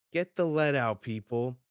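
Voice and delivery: loud, high barked order; impatient command. Acted. Rocks hurries his squabbling crew, impatient command. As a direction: call it out hard, easing on the last word.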